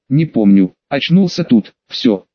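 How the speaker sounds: low, halting, gurgled words; gurgling voice. Acted. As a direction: force each word out through gurgling. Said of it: "тем же самым булькающим голосом".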